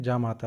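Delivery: जामाता with a long first vowel, jaa-maa-taa; correct form said. Shown as a demonstration. Teacher repeating the right form जामाता, long opening vowel. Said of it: "जामाता होता है".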